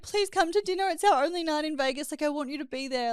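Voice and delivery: mild retold plea, pitched a little up; pleading, nearly crying. Begging partner to come to dinner, mildly tearful plea. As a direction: plead earnestly, lightly imitating near tears. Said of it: "I almost cried and was like".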